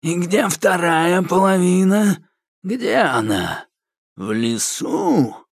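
very slow, menacing voice; grim threat. A narrator's reading. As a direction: threaten darkly. Koshchei demands the half. (угрюмый угрожающий голос)

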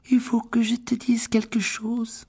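chuchoté lentement, tendu; chuchotement apeuré. Acted. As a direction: souffler l'aveu, effrayée. (chuchotement craintif)

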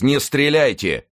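high, slow, drawn-out call; urgent shout. A narrator's reading. Athos stops his friends from firing, urgent shout. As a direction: call out to stop him, stretching it. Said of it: "крикнул Атос".

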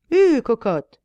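loud yell at the horse; shouting coachman. Acted. Coachman yells loudly at his horse again. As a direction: bellow it like a rough cabby.

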